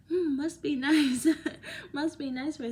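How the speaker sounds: laughing sarcastic "must be nice"; wry, envious joke with a laugh. Retold or imitated. About others' testimonies, laughing sarcastic envy.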